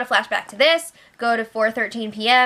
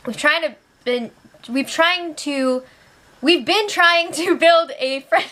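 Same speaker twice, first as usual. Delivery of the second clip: mock crying; 3 semitones higher than usual. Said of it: "cry yelling".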